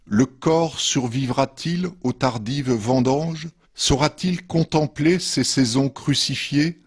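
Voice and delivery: measured poetry reading with pauses between verses; poem reading. Acted. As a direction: read each verse line apart, letting it settle. Reads own poems after intro. (lecture de poème posée)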